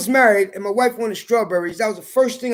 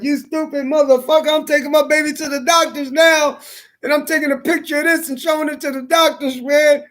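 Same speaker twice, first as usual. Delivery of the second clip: angry scolding; 6 semitones higher than usual. Retold or imitated. Wife scolds husband over strawberries.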